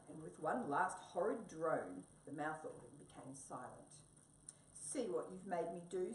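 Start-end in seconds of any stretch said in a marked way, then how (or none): 4.7-6.1 scolding. Acted. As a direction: tell Mouse off for breaking it. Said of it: "scolded Wombat".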